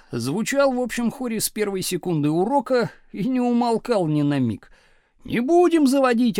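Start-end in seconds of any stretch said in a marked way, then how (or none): 5.2-6.4 loud, high defiant yell. A narrator's reading. Back-row pupils refusing teacher's order, loud yell. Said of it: "орали с задних парт".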